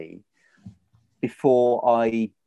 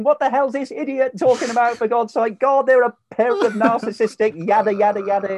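high, loud mock grumble from an annoyed listener; a put-on cranky listener voice, pitched way up; grumpy listener; 12 semitones higher, 7 dB louder than usual. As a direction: sneer like a fed-up listener, half laughing.

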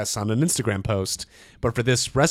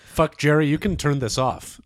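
sexy voice; 3 semitones higher than usual. Pretend. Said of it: "unless you like this sexy voice".

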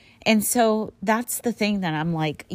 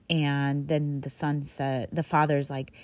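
ordinary talk, nothing marked

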